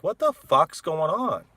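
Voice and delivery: loud slowed exclamation; retold disbelief. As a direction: drag it out in disbelief. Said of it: "everybody was like".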